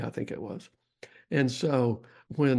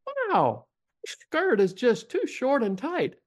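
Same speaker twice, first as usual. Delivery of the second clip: high, slow mock-judgmental imitation of Lisa's accent; 12 semitones higher, slower than usual. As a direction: tut over the skirt in Lisa's accent. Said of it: "in Lisa's accent".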